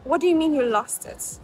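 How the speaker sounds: imitating an annoyed official, mildly indignant; retold annoyance, lightly played; mock annoyed. Official questioning applicant about lost passport, imitated annoyance. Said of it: "She got annoyed with me".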